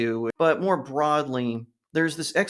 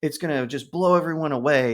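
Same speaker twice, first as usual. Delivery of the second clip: high, quick excited voice; lightly voiced excited waiter; imitating the waiter; 3 semitones higher than usual. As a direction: rush it like an eager fan. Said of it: "And he goes".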